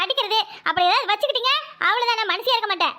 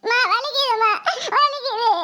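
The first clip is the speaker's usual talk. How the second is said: half-laughing fake sobbing kid; hammed-up crying boy; slower than usual. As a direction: whimper the pain like a boy who's been hit, with a laugh breaking through. Boy being beaten.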